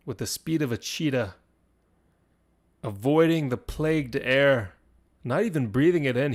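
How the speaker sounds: suspenseful storytelling in short, separated phrases; lightly dramatize the charge, pausing for suspense; game master narration. Acted.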